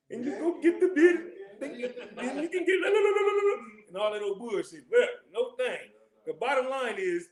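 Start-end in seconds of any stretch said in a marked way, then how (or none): 0.1-3.6 laughing. Real, not acted. Giddy rundown of the store.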